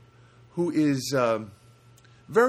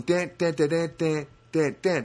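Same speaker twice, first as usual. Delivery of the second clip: rhythmic spoken car horn; vocal beeps, slightly raised; imitated friendly honk; 4 semitones higher, slower than usual. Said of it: "That's a friendly honk".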